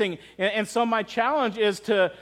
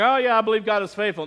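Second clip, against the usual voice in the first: quick, offhand imitation of shallow belief; breezy mock assent; mock casual agreement; 2 semitones higher, faster than usual. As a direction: toss it off like it means little.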